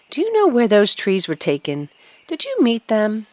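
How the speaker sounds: put-on a young tree pestering the birds with questions; eager young fir tree. Young fir tree asking the birds, eager.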